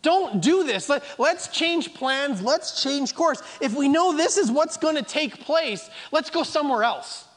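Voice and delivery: mildly voiced pleading friends. The people urging Paul to change plans, understated pleading. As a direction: urge him to change course, lightly begging. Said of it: "they're pleading with him".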